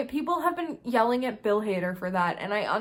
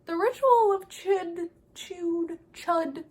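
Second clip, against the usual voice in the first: higher, chanting Chud; dramatic emphasis; 7 semitones higher, slower than usual. Real, not acted. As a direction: stress Chud, higher, slow at first. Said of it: "nobody mentions the turtle".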